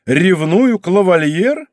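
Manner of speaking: high, drawn-out haughty question; haughty exclamation. A narrator's reading. Princess trying to humble the count, haughty disbelief. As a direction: scorn the very idea, slowly and high. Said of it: "надменно воскликнула принцесса".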